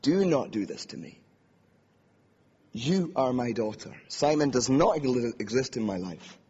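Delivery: acting an angry, frightened mother; angry, hurt mother. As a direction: forbid it like a hurt mother, stressing each refusal. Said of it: "the accent I hear in my head is my mother's".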